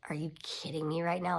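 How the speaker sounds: furious but kept under her breath; angry whisper. Retold or imitated. Wife whispering at her husband in the pew, angry whisper. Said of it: "Like, I was pissed".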